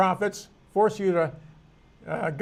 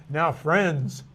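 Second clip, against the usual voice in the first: imitated talking-down address, understated; condescending; 3 semitones lower than usual. Teacher showing how people say it to so-called friends, mildly condescending. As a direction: address them with a touch of condescension. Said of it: "like in a condescending manner".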